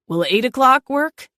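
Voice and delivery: a cat playing a languid real estate agent; airy, sedated realtor voice. A narrator's reading. Celine fakes an airy realtor voice to the homeowner on speakerphone. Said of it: "I'll put on my real estate voice".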